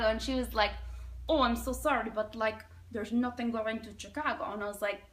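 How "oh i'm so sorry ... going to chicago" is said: put-on Russian accent. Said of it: "there's this Russian lady".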